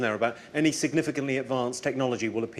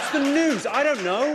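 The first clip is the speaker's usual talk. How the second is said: loud, high, incredulous; exasperated outburst; 6 dB louder, slower than usual. Real, not acted. Comedian repeating his rant at the news, loud and incredulous. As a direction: hammer the point home in disbelief.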